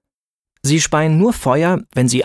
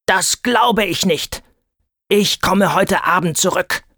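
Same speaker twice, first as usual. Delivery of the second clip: much higher, slow defiant scream; dragon screaming; 6 semitones higher than usual. A narrator's reading. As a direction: shriek it out in panic and defiance. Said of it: "Doch er schrie". (hoher, langsamer Drachenschrei)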